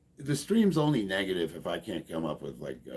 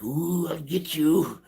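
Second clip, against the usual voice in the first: higher, slow, laughing mock threat; mock angry hater; 8 semitones higher, 4 dB louder than usual. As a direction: ham up an unhinged rival's threat. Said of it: "he's like".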